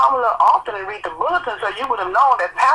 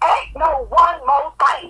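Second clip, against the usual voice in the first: tearful angry shout. Real, not acted. Cutting off the caller.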